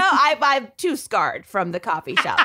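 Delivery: laughing through the words. Real, not acted. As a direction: speak while laughing. Laughing about coffee shop story.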